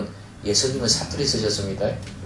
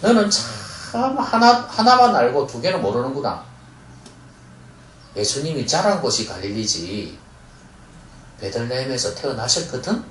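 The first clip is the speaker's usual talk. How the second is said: knowing retort. Shown as a demonstration. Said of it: "요렇게 이야기를 하셔야죠".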